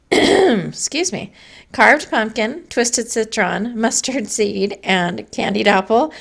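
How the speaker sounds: strained, fading voice; losing her voice. Real, not acted. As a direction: talk through a voice that's going. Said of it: "I'm losing my voice".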